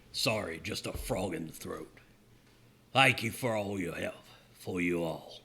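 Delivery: put-on low, soft young prince; lightly voiced gentle prince. GM voicing the prince.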